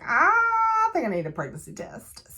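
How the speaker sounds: high-pitched wail easing into speech; hammed-up panicked blurt; mock panic. Josie going to Alex about a test, mock panic. Retold panic over possible pregnancy.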